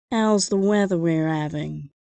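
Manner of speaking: slow, hammed-up British small talk; bad fake British accent; American asked to impersonate a Brit; mock British accent. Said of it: "do your best impression of a Brit".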